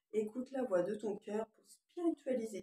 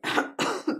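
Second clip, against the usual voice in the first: sharp loud cough; one real chesty cough; 10 semitones higher, 9 dB louder than usual. Real, not acted. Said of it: "Je tousse encore un peu".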